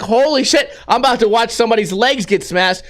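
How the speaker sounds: sudden alarm at a near crash; retold alarm. Seeing car about to crush friend, retold alarm. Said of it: "I was like".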